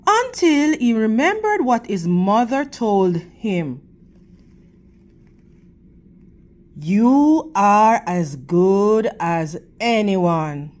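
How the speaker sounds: expressive storybook reading for the class; teacher's read-aloud voice; reading to children. Acted. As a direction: read it to the kids, clear and gentle.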